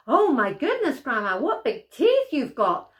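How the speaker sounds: put-on a girl taken aback; startled little girl. Girl spots the wolf's teeth, high and startled.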